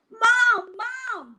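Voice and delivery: high, loud frightened call; scared kid calling mom; screaming for mom. Acted. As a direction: cry out for mom in a panic. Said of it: "Jasper screamed".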